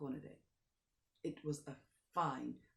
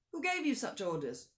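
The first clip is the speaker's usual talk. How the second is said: higher, louder indignation; indignant question; 7 semitones higher, 7 dB louder than usual. Acted. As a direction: demand who gave the order. Count questions driver.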